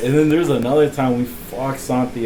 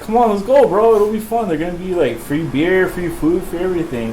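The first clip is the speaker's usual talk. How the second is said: upbeat persuading, pitched up at first; coaxing; 4 semitones higher than usual. Retold or imitated. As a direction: talk a reluctant friend into coming along. Retold coaxing of reluctant friend.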